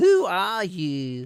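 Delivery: loud, annoying, obnoxious voice. Voicing an elf who mimics a player's question: obnoxious mocking voice. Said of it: "mimicking you in an obnoxious voice".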